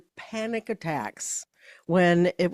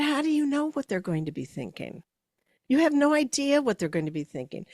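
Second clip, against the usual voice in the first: higher, insistent and quicker; emphatic challenge; 7 semitones higher, faster than usual. Retold or imitated. Coach challenging a nervous leader's assumptions, emphatic and quick. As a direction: push back firmly on her fear.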